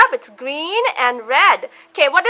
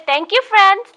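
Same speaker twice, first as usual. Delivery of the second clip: put-on model phrase for child; 3 semitones higher, slower than usual. Shown as a demonstration.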